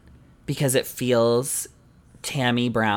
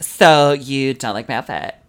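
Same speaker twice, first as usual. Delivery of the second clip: louder, put-on voice of an offended queen; confronting drag queen; 2 semitones higher, 7 dB louder than usual. Queen challenging a reviewer about her outfit, mock confrontation. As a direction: confront the critic in a hammed-up voice. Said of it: "her to be like".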